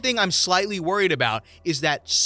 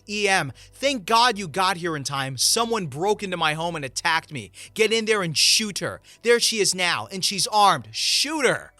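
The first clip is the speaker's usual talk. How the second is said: loud, higher, panicked pleading to the police; fake victim screaming; 4 semitones higher, 3 dB louder than usual. Entitled mother screaming at the police to shoot the homeowner, loud and higher. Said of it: "When she screams".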